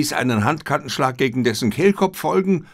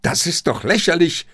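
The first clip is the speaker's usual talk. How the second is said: raised, higher protest; indignant call; 6 semitones higher than usual. A narrator's reading. Katayama protests the test to the room. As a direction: cry out in outrage. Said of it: "rief er".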